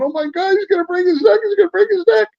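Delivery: high, alarmed mock panic; wife watching a fight, high alarmed cry; retold alarmed wife. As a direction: imitate the wife gasping in alarm. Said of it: "My wife's going".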